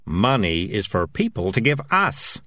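mildly stern correction; firm, measured rebuke. Acted. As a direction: lay down the rule firmly. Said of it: "said Morris sternly".

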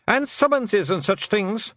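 high, slow Scottish clansman; dread-filled Scots voice; worried Feegle. Acted. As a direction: intone the horror item slowly. Another Feegle adds a dreaded item.

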